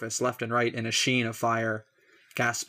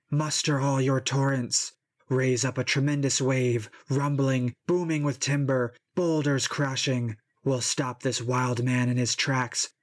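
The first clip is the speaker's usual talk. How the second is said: rally your brother to drown the man, a touch raised and grand; raging river god; 2 semitones higher than usual. Acted. River Xanthus calls Simois to drown Achilles, raised and roaring. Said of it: "roaring out to Simois".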